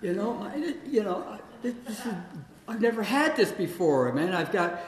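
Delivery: high, loud, laughing delight; retold excitement. Finding a stray cat under the house, giddy laughing delight. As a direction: gush with giddy joy at the find. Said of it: "And I'm all excited".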